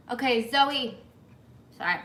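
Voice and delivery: talking while chewing; words round a bite of food; mouth full. Real, not acted. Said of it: "Let me not talk with my mouth full".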